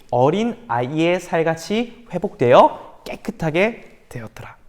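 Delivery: slow whisper of the miracle; hushed reading. Acted. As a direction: breathe out the healing in awe. Dramatic climax of the scripture reading. (기적을 속삭이듯 천천히 읽기)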